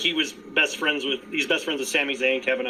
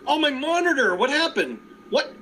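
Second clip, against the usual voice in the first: imitating Kevin Kelly. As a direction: feign shock, deny the obvious. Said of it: "Kevin Kelly goes".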